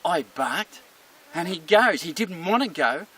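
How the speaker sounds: gloating with punched words; lightly acted smug dog; self-satisfied dog. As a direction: boast as a dog pleased with its bark. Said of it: "And the dog goes".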